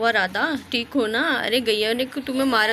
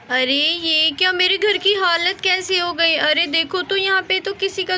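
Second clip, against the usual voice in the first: shocked; 5 semitones higher than usual. Acted. Radha finds house wrecked.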